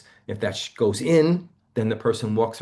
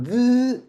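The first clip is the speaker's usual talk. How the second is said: stutter block; 6 dB louder than usual. Shown as a demonstration. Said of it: "It's trying to get out".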